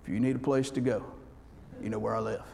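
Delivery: low, soft, conspiratorial murmur; hushed secretive offer. Retold or imitated. Prepper quietly inviting the preacher to his bunker, low and hushed. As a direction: lean in like sharing a secret hideout. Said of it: "He says".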